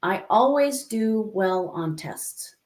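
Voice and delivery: slow, deliberate affirmation; measured, deliberate self-affirmation; positive affirmation. Shown as a demonstration. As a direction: state it slowly, as a belief to repeat. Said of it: "Say the complete opposite".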